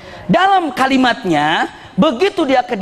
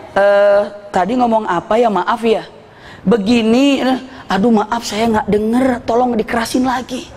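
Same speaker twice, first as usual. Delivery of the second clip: feigned deafness. Retold or imitated. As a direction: act as if you missed every word. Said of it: "Pura-pura".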